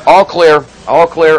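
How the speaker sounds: loud call across the room. Real, not acted. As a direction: shout it out to the crew. Calling out to crew.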